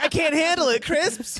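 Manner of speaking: high mock-distraught wail; hammed-up culture-shock meltdown; overwhelmed. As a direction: whine it way up high. Acted overwhelmed American girl.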